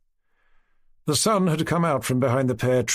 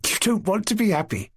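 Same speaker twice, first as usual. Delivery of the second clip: teasing, a bit higher; playful teasing; 9 semitones higher than usual. A narrator's reading. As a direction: tease her friend lightly. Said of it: "quite out of breath".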